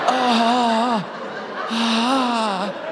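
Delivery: long, softened breathy "ahh"; sighs of relief. Acted. Man dipping into cold water, relieved sighs. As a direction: exhale slowly as the burning eases.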